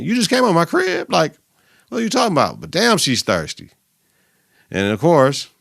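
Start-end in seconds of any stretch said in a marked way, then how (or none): 0.0-2.6 mock girlfriend voice. Mocking girlfriend's clingy words.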